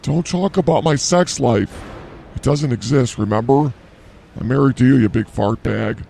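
mock annoyed. Mock bickering with partner.

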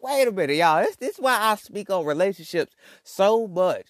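high, loud protest to the audience; worked-up disbelief. Retold or imitated. Podcaster tells y'all why he speaks on relationships, worked up. Acted shock at cheating story.

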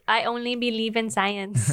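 light mock Mexican accent; Nacho Libre. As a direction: lightly imitate a Mexican-accented film line. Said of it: "Do Nacho Libre".

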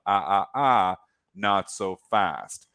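wagging-finger "ah, ah, not so fast"; slow teasing warning. Acted. Playful warning after imagined bear rant.

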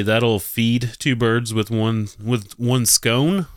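slow, drawn-out mocking read; mock polite phrasing. Host mocking the new polite phrase, slow mocking read. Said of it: "Instead, say".

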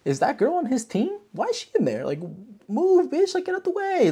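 hammed-up crowd shouting at the girl in the ring; mock annoyed crowd. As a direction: yell like a fed-up fan.

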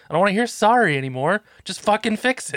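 high, exasperated dad; retold exasperation. Dad to his apologising kid, exasperated. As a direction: re-enact cutting off a kid's apology.

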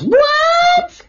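sharp high startled what. Retold or imitated. Girlfriend startled by a fart warning, high yelp. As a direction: yelp it like she can't believe it.

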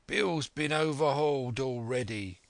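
lightly voiced rough sailor; henchman reporting. A narrator's reading. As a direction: report back with a hint of a put-on sailor voice. Searcher reports from the inn door.

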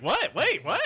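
hammed-up shock; mock surprise. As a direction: jerk back in disbelief. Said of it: "You're like".

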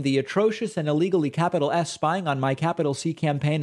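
one long rushing sentence with barely a pause; breathless run-on read. Retold or imitated. Host reading Trump's letter aloud, breathless run-on. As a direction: push through his letter in a single breath. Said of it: "that's one sentence and I'm already out of breath".

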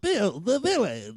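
slow, eerie ghostly call; spooky voice. Acted. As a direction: drag it out like a ghost. Spooky repeat.

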